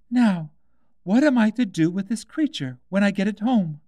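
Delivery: put-on high girl's voice, wondering; puzzled Alice. A narrator's reading. Alice wonders what to do with the baby, in a high puzzled voice. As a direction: muse aloud like a young girl.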